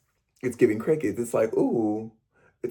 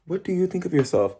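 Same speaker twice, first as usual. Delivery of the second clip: pitched higher, put straight at the viewer; pointed question; 5 semitones higher than usual. Real, not acted. To his viewers, asking pointedly and waiting for an answer. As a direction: lean into the camera and ask it.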